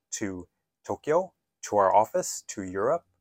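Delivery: "To Tokyo, to our office, to Europe" each rising at the end; rising intonation. Shown as a demonstration. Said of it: "we want to have that upward intonation at the end".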